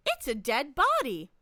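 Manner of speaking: mildly imitating a bright, chipper game narrator; cheery tone. Game voice urging the player to touch the body, mock cheery. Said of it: "in, like, a very cheery tone".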